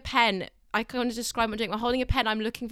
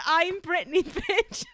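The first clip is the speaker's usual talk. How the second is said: sassy catchphrase; 7 semitones higher, much slower than usual. Retold or imitated. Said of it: "I, I said".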